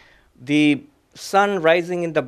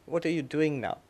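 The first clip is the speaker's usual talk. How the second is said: put-on softer, gentle quoted question from the elderly guru; gentle old guru; 7 dB quieter than usual. His elderly guru asks the young student gently and softly. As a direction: ask it softly, like a kind old teacher. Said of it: "he very gently said".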